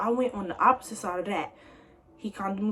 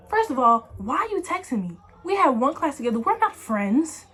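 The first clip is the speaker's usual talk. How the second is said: retorting; 4 semitones higher, 3 dB louder than usual. Retold or imitated. Scolding the texter.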